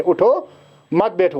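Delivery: उठो alone, then मत बैठो joined; a short break separating उठो from मत बैठो; pause after उठो. Shown as a demonstration. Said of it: "pause कहाँ दिया है पहले".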